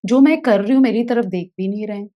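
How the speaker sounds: put-on the child fed up with being pushed around; frustrated inner rant. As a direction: let the anger spill out quickly. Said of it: "इतना गुस्सा आ रहा था".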